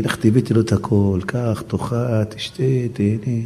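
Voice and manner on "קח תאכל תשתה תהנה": gentle offer. Acted. Bride tenderly serving the poor man.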